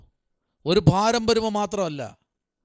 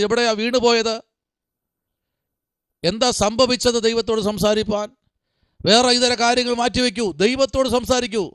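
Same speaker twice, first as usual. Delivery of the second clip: higher-pitched preaching appeal; exhorting preacher, pitch raised; urgent exhortation; 5 semitones higher, 3 dB louder than usual. Real, not acted. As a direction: press the congregation to act.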